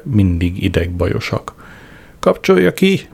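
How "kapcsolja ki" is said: very high, choked yell; yelling, strangled. A narrator's reading. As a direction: scream it out through a tight throat. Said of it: "ordította".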